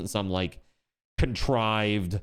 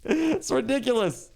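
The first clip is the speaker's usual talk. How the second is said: disbelieving exclaim; 10 semitones higher than usual. Real, not acted. Fireball attack in game.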